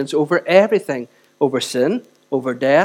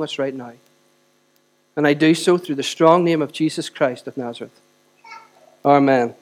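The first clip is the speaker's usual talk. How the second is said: pastoral prayer. Acted. Leads a prayer.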